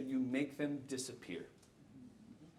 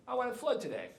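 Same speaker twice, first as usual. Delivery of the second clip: high-pitched mock planet, getting louder; playful planet voice; 10 semitones higher, 8 dB louder than usual. Speaker voices the planet deciding on a flood, high and playful. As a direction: toss it out high, as the whimsical planet. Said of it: "she's gonna keep doing what she's doing".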